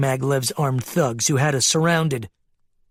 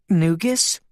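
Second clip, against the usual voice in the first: puzzled; 3 semitones higher than usual. Acted. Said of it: "asked in a puzzled tone".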